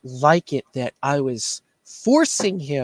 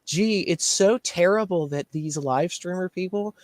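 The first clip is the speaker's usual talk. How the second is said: mock outrage; 3 semitones higher than usual.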